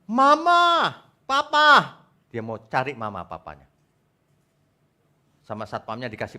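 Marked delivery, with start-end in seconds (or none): 0.1-2.0 put-on high, loud child calling for parents; acted child's wail; lost child wailing. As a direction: cry out like a lost little kid.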